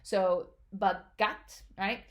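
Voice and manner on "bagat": bagat with a tight throat on the G; slow bagat, pressing the G; 바깥 with a tense consonant, said slowly; tensed G. Shown as a demonstration. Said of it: "You put a little bit more stress into it".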